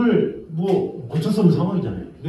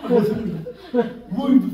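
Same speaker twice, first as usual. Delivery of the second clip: startled laugh; 8 semitones higher, 4 dB louder than usual. Retold or imitated. Breaker trips with a bang.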